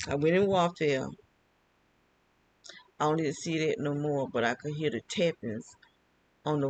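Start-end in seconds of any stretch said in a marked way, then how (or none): 0.1-1.1 amused at her own words, laugh while saying it; chuckling retelling of going in warfare. Real, not acted. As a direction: repeat it through a real laugh. Repeats her claim, laughing.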